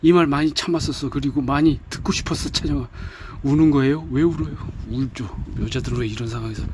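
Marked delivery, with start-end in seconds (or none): 0.0-2.9 emotional confession. Acted. Senior confesses love, voiced.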